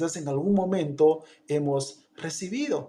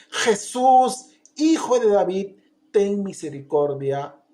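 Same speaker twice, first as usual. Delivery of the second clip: a touch louder persistent cry; shouting louder; 4 dB louder than usual. Retold or imitated. Bartimeo shouting louder to Jesus, mild cry. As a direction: keep crying out. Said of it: "empezó a gritar mucho más fuerte".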